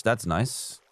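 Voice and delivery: accidentally dry, sarcastic-sounding approval; unintentionally sarcastic. Real, not acted. Streamer replying to a half-British viewer, unintentionally sarcastic. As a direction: say it kindly but let it come out sarcastic. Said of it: "that sounded really sarcastic".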